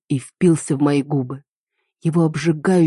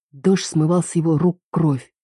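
ordinary delivery, nothing marked

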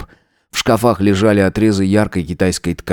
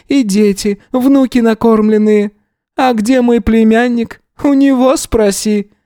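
put-on old gypsy woman; 13 semitones higher than usual. A narrator's reading. Narrator holds Yana's voice.

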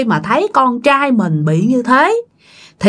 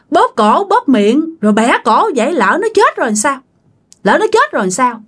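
raised-pitch, mildly hectoring questions; scolding; 5 semitones higher than usual. Acted. Old mother berates the spirit possessing her son, scolding. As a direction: challenge the spirit sharply, higher than usual. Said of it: "không có hỏi nhẹ nhàng mà kiểu nạt nha".

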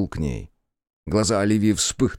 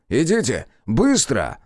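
shout; 5 semitones higher, 4 dB louder, slower than usual. Acted. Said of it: "крикнул Кроу".

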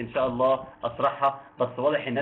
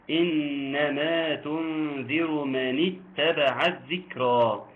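slow recitation; much slower than usual. Shown as a demonstration. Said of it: "إيه الحكم اللي فيها؟".

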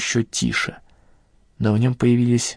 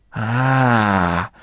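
abrupt startled exclamation; sudden cry. A narrator's reading. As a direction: burst out with a sharp cry. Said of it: "воскликнул он неожиданно высоким и резким голосом".

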